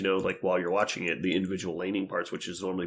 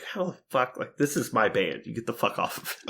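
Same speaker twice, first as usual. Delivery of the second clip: retold territorial outburst; 3 semitones higher than usual. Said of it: "'Cause I was like".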